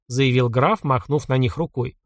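ordinary delivery, nothing marked

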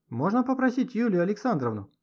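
a faint caller on a long-distance line; distant woman's voice. A narrator's reading. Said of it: "донёсся до него издалека женский голос".

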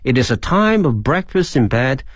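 measured English model reading for learners; reading aloud. Shown as a demonstration. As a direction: read the lesson text out clearly. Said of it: "给大家再朗读一遍".

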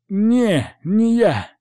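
put-on high-pitched boyish denial; defensive, high young hooligan; denying lad. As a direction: protest innocence in a high lad's voice. Boy denies hitting him.

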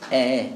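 low آه gliding between hamza and alif; آه with no hard glottal catch; eased hamza. Shown as a demonstration. Teacher modelling by ear, low eased hamza on آه. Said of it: "لا تضبط إلا بالسماع".

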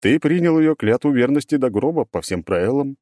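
grinding, weary robot voice; melancholy gloating grind. Acted. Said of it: "меланхолично, но с нотками злорадства скрежещет голем".

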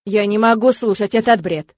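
a touch of a roar; thundering. Acted. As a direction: cut in loudly, fed up. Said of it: "громыхнул Тирк".

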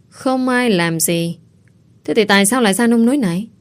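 chậm rãi hỏi lại rồi dồn dập, cao giọng; mẹ vặn vẹo không tin lời con; nghi ngờ. Acted. (mẹ nghi ngờ gặng hỏi con gái)

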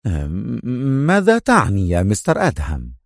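mildly anxious question; a touch of worry; eager and worried. Acted. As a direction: ask with uneasy urgency. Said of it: "وسأله في لهفة وقلق".

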